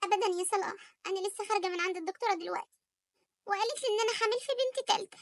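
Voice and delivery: high, tearful wife breaking the news; upset wife telling her husband she's pregnant with another girl, near tears. Acted. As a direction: hold back tears while telling him. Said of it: "مالك بتعيطي ليه".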